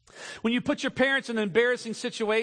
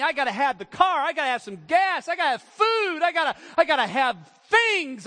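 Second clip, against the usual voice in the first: higher, louder, building to a greedy whine; scheming teenager; 5 semitones higher, 3 dB louder than usual. Retold or imitated. Preacher voicing a teen who needs parents' money, rising whine. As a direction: list the wants like a needy teen.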